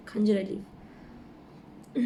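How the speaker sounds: کھنجر الف drawn out very slowly in a breath; stretched alif. Shown as a demonstration. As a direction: hold the alif for two full counts, slow and airy. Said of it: "یہ دو second کا آپ کو کھینچنا ہے".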